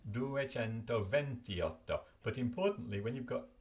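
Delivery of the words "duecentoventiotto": "duecentoventiotto" slowly, keeping the i in venti; mistaken pronunciation demo. Shown as a demonstration. Learner showing what they first thought the number was, slow demo. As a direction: spell out "duecentoventiotto" by sound, venti and otto both whole. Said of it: "originally have thought it would be".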